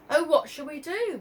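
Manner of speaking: worried. Acted. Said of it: "worried Marie".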